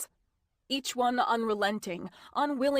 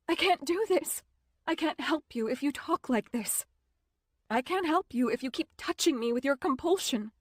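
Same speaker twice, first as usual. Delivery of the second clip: higher, strained refusal; raised, distressed pleading; upset outburst; 4 semitones higher than usual. Acted. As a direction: push him away, voice climbing. Sophia refuses him, upset.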